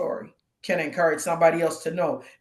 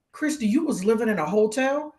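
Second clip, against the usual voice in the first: higher, incredulous question; blown-away disbelief; 4 semitones higher than usual. Retold or imitated. Acquaintance finding out about the hotel living, astonished. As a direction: imitate an astonished acquaintance asking. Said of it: "they were blown away".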